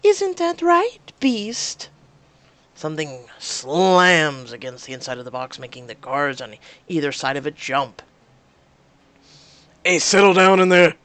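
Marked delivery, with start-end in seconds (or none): 0.1-1.9 high, slow sing-song taunt. Acted. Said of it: "speaking in a sing-song voice". 9.8-10.9 loud barked order; shouting. Acted. Guard yells at the cage.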